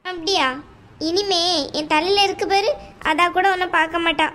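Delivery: a domineering aunt, coldly dismissive; mother-in-law telling the bride to leave the house, scornful. Acted. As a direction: lay down the law to the unwanted daughter-in-law. Aunt's voice again.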